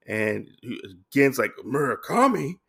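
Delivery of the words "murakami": mildly voiced shock, pitch lifted. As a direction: echo the name in mock disbelief. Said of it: "like, shocked".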